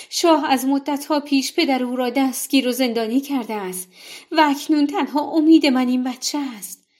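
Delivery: high, loud begging with a hint of tears; tearful pleading. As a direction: plead for your child's life, near crying. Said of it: "در میان گریه و زاری التماس کرد". (التماس با صدای گریان و بلند)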